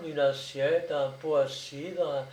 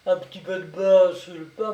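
loud echo rising on "pain"; mocking echo; 2 semitones higher, 6 dB louder, faster than usual. A narrator's reading. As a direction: throw "pain" back at her sceptically. Brigadier quotes her claim mockingly.

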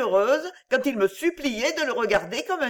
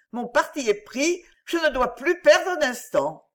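higher, earnest and urgent; a girl gathering her courage; young heroine Virginie, resolved; 3 semitones higher than usual. Acted. Virginie asks to be taken to her father, high and urgent.

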